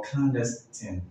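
clandestine ending in a short "tin"; alternative pronunciation. Shown as a demonstration. Teacher giving learners the other option, clandestine with short final i. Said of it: "can be pronounced as".

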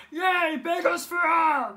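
excited cheer. Acted.

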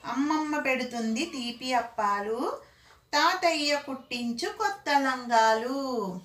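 slow, measured rhyme line; children's poem read out slowly; singsong rhyme. Acted. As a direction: recite it with drawn-out line endings. Reciting the children's rhyme couplet.

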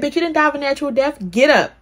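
high, fast and loud, bossing a friend up; hammed-up sassy friend demanding she get up; sassy mock yell. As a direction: playfully yell her out of the grave. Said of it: "She said".

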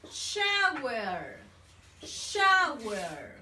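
shower drawn out, falling; model word for repeating. Shown as a demonstration. Teacher drills shower for young learners, drawn out. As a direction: drill shower slowly for pupils. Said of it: "Come on, repeat".

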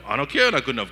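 defiant retort. Pretend. Defiant answer to the lie.

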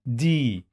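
دي with a long held "ee"; teacher sounding out long "dee"; long ya vowel. Shown as a demonstration. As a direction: stretch دي into "deee". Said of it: "مد بالياء".

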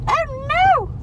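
high, loud dramatic gasp of alarm; imitating a dramatic dog owner; mock panic. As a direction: overplay the owner's fright. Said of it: "She was like".

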